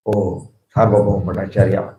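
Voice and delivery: low, softened respectful address; humble. Retold or imitated. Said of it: "spoke in a humble way".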